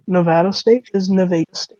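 first Nevada with short A as in cat, second Nevada with long A as in day; Nevada State is Nevada State, flip the vowel; contrast two Nevadas. Shown as a demonstration. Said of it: "it's pronounced Nevada".

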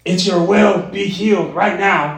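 lightly put-on healing voice, drawn out; slow, slightly odd preacher imitation; Todd White's weird voice. Preacher mimicking a healer praying over someone, mildly weird voice. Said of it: "He said it like that in that weird voice".

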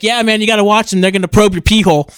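mock crazy agreement. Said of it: "I went from normal to crazy".

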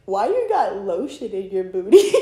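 quoting him through laughter; laughing. Retold or imitated. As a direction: giggle through the quote. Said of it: "He's like".

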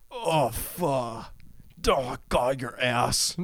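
soft breathy mock moan of a man in bed; mock horny moaning. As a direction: ham up a horny guy, softly. Men in bed imitated.

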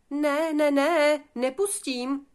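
high, loud little-pig refusal; defiant piglet. Acted. Piglet Fridolín refusing the wolf at the door, defiant. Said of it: "oponoval Fridolín".

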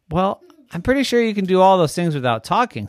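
high, loud mock-enthusiastic dad; teasing daddy. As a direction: oversell the idea playfully. Daddy voiced.

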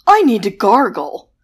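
loud, breathy vampire rasp; hammed-up vampire wanting mouthwash. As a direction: whisper it like a theatrical vampire. Vampire speaks.

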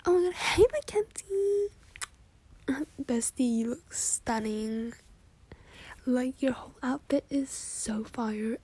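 gushing fake-sweet greeting; giddy party girl. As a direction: squeal hello to your bestie.

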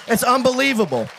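marvelling exclamation. Real, not acted. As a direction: exclaim it in amazement. Preacher marvels after climax.

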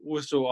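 Russell said softly as "roo-SOH"; French-style pronunciation. Shown as a demonstration. Co-anchor showing the name like a French accent, Russell as "roo-SOH". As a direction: say Russell softly, ending on an open "oh". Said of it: "kind of a French accent".

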